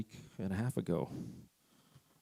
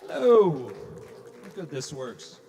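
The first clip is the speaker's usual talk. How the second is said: echoing tunnel; 5 semitones higher, 13 dB louder, slower than usual. Real, not acted. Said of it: "Sounds like I'm in a tunnel".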